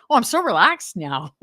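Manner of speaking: retold sarcastic comeback; mock sarcasm. Wife answering husband's "relax" in a retold spat, sarcastic. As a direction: play up the fake agreement, lightly.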